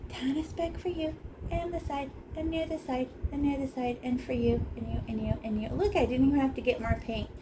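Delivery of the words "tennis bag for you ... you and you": sing-song giving. Pretend. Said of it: "So I just go".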